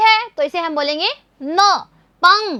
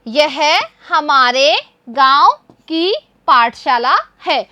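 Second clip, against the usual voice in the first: slow read-aloud; 2 semitones lower, slower than usual. Shown as a demonstration. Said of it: "इस तरह से आप इन वाक्यों को पढ़ना सीखिए".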